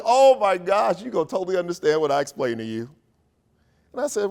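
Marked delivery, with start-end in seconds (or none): 0.0-2.9 higher, louder and fast, bubbling over; retold excited rush; excited gush. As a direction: manager thrilled to explain. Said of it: "She was like".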